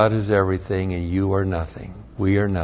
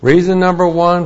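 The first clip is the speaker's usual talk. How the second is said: preaching emphasis; 6 semitones higher, 6 dB louder than usual. Real, not acted. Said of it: "preaching emphasis".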